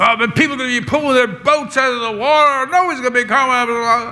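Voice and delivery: mock angry rant, yelled, high-pitched. Speaker imitates a man who ranted about the weather at them: mimicking an angry yelling rant. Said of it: "He was yelling".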